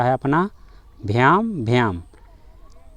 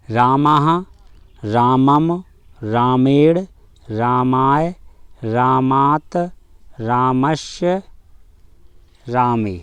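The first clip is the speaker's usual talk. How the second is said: slow recitation; much slower than usual. Shown as a demonstration. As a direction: say each form slowly, one at a time. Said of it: "इसको पहले धीमे धीमे पढ़ते जाएंगे मेरे साथ". (धीमे धीमे पाठ)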